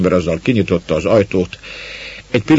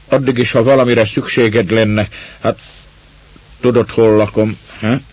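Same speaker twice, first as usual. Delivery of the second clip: louder, higher, blunt man's voice; a rough neighbour talking down to a child; gruff woodsman; 4 semitones higher, 5 dB louder than usual. A narrator's reading. Man talking to the girl, gruffly.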